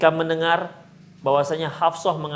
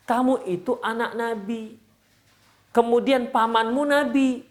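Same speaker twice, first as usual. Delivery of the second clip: slow, higher-pitched reassuring question; retold encouragement; 5 semitones higher than usual. Husband reminding wife of her lineage, encouraging. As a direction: lift up a downcast listener, unhurried. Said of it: "membesarkan hati Sofia".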